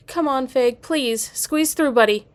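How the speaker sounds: high, loud, slow begging; desperate pleading. A narrator's reading. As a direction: beg the cat desperately. Begging cat to squeeze through.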